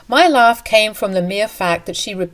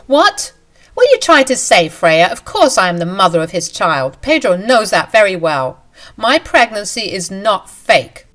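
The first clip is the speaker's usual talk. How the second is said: shocked outburst; 5 dB louder than usual. Acted. Mistress denying the wife's accusation, shocked outburst. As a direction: jolt up in pitch and protest.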